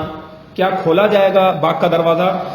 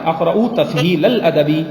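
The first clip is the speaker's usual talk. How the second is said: الادبی said slowly and clearly, ending in -i; slow dictation of the correction; much slower than usual. Shown as a demonstration. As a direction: spell out the corrected form slowly. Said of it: "تسہیل ال کر دینا".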